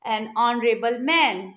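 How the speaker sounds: very slow, each word drawn out; slow model pronunciation. Shown as a demonstration. Teacher modelling a phrase for students, very slow and careful. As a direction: spell it out slowly for the class. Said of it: "पर sound किसकी आ रही है?".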